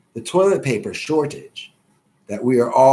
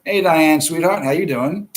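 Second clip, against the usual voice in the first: high, sing-song mock flirt; teasing Jetson by voicing his flirty typing; mocking a flirty typer; 6 semitones higher than usual. Teasing a viewer with a high mock flirty greeting. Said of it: "Every time you press on that keyboard".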